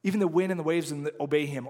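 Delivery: lightly voiced astonished disciples; a hint of wonder at the calmed storm; mild amazement. Pastor voicing disciples after the storm, mild amazement. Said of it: "they were amazed".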